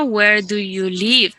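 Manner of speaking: slow, clear model question; slowly modelled question; slow correct model. Shown as a demonstration.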